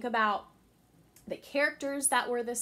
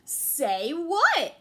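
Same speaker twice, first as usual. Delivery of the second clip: higher, louder playing dumb; innocent deer; 9 semitones higher, 8 dB louder than usual. Little Bush Deer pretending not to understand, innocent. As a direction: act innocent.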